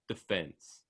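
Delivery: "Defense" stressed on the second syllable; d'fence pronunciation. Shown as a demonstration. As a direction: say "Defense" like D-apostrophe-fence. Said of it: "it's like D apostrophe fence".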